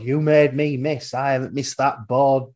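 lightly imitated Yorkshire darts player; Yorkshire accent. Darts player blames stranger for miss, Yorkshire accent. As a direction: quote him in broad Yorkshire. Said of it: "proper Yorkshire accent".

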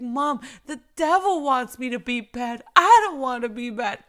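lightly voiced sweet child; adorable little boy. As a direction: plead like an earnest little kid. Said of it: "just adorable".

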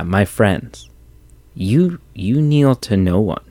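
hushed, breathless whisper of the king's line; awed whisper. Retold or imitated. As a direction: whisper it like a sacred moment. Re-quoting the king, awed.

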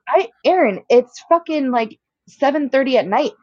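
high-pitched, exasperated sister; retold exasperation. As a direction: reason impatiently with a fretting brother. Exasperated sister argues with brother.

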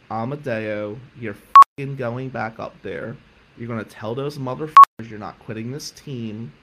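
angry yell. Retold or imitated. Coach yelling at quitting student to go back, furious shout. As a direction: drive him back into the room with a roar.

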